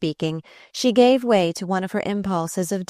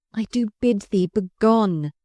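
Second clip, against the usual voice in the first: imperious; 3 semitones higher than usual. Acted. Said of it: "she answered imperiously".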